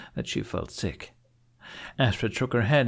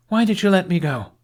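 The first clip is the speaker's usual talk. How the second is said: higher and louder, pressing for an answer; demanding question; 10 semitones higher, 7 dB louder than usual. A narrator's reading. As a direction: press him hard on why.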